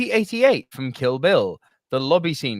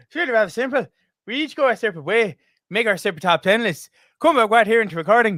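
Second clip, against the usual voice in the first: put-on Irish accent; 2 semitones higher than usual. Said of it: "no more attempts at terrible Irish accents".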